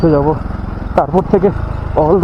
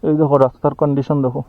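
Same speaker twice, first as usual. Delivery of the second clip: talking while the car bumps; on a bumpy road; 3 semitones lower, 3 dB quieter than usual. Real, not acted. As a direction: voice jolted by rough road. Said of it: "এত খারাপ রাস্তা".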